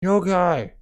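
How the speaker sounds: high, loud shout of her name; calling out. Acted. Captive calling her rescuer, high loud shout. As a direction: yell for rescue across battlefield.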